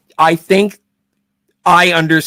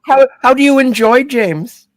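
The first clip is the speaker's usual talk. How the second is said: much higher, put-on villain voice; Blofeld impression; 11 semitones higher than usual. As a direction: put on a high villain's voice to pry. Jokes as Blofeld to psychiatrist.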